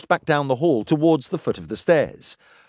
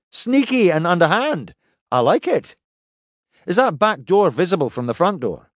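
higher, brisker captain voice; Pike's voice; 5 semitones higher, 3 dB louder than usual. Acted. Pike approves plan.

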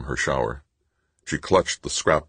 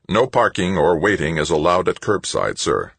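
stiff, louder machine announcement; police robot; 4 semitones higher, 5 dB louder than usual. Acted. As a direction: read it like a robot cop.

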